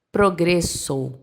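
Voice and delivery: "progresso" devagar, à espanhola, O final fechado em O; pronúncia espanhola. Shown as a demonstration. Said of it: "no espanhol, como ficaria". ("progresso" lento, em espanhol, O final sem virar U)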